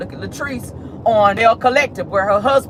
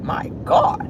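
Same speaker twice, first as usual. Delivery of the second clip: shocked gasp. Retold or imitated. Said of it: "I was like".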